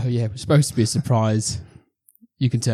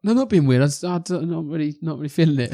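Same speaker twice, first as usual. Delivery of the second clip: awkward denial; 4 semitones higher than usual. Retold or imitated.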